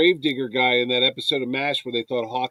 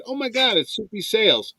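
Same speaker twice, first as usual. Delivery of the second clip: retold starstruck excitement; 7 semitones higher than usual. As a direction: imitate spotting a star, pitch jumping up. Retelling spotting a celebrity.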